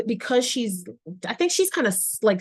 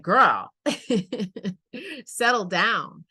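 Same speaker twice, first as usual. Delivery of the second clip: mock adult reaction; 3 semitones higher, slower than usual. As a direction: punch "girl", then an unhurried, chuckling "settle down". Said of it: "adults would look at them and be like".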